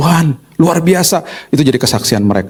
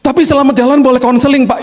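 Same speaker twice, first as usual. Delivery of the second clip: much higher, louder, tearful driver; sopir menangis; 3 dB louder than usual. Retold or imitated. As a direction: blurt it out like a weeping driver. Crying driver asks for counseling. (sopir bercerita sambil menangis, suara jauh lebih tinggi dan keras)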